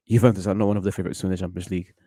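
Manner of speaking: fast, with the weight on "favorites"; emphasis on favorites. Shown as a demonstration. Taking back his Champions League pick, stressing "favorites". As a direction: rattle it off but land on "favorites". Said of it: "Emphasis on the word spe-, um, favorites".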